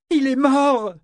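high, loud cry of bad news; shouted. A narrator's reading. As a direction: shout it at him to make him hear. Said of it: "lui cria Eta". (cri aigu et fort)

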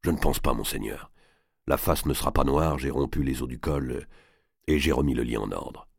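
low-pitched, subdued servant reporting; a hint of a low-voiced henchman; lightly voiced henchman, matter-of-fact. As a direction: report discreetly to your lord, low. Henchman Lormet reporting to his master.

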